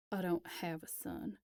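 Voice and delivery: hushed, flat disowning whisper; cold denial. Acted. Elias on the phone disowning his son, hushed and cold. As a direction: let it drop low and final.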